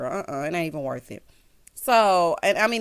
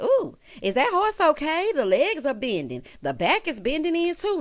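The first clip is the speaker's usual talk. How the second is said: higher teasing fake worry; mock-concerned roast; 6 semitones higher than usual. Lisa roasting Heavenly on the horse, high mock concern. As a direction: tease her with fake worry. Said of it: "roasting Heavenly".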